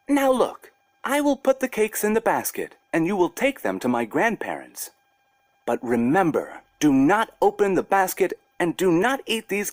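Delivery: put-on high bossy little girl voice; a small girl giving a bear strict orders; little girl Masha. Masha warning the bear not to eat the cakes, high bossy girl voice. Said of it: "and said to the bear".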